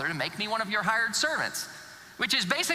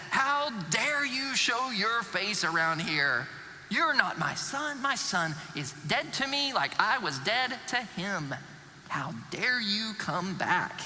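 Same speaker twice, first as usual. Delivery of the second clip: righteous anger; slower than usual. Acted. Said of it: "filled with righteous anger".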